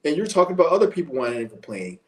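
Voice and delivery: high, fast sneering imitation of a critic; mocking whiny critic. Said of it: "How you gonna sit there and tell me".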